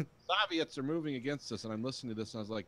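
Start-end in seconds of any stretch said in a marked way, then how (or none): 0.3-1.6 higher mock American accent, stilted; imitated Reagan accent. Mimicking the audiobook narrator doing Reagan, imitated Reagan accent. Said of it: "he tries to do Reagan's accent".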